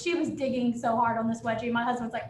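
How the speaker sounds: usual speaking voice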